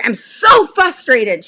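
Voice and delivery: mock frustrated teen. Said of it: "she says".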